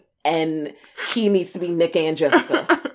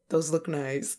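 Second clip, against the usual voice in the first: grudging mumble; 2 semitones lower, 10 dB quieter, slower than usual. Retold or imitated. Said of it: "And he's like".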